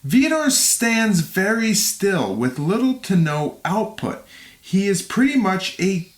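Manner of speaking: measured, clearly articulated read; fight recap narration. A narrator's reading. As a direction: narrate the bout like a documentary. Reads scripted fight recap.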